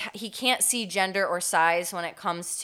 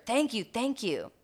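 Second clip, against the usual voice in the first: gushing; 5 semitones higher than usual. Retold or imitated. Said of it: "Gushing to a male park ranger".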